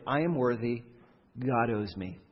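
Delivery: quietly self-assured entitlement; a low, smug muttered claim on God; entitled claim. Shown as a demonstration. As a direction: say it softly, as if it's obvious you're owed. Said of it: "the merit approach sounds like this".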